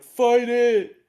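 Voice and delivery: loud urgent rallying shout; mock shout. Jason shouting at Zack to resist. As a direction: yell it like a coach urging him on. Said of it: "Jason's like".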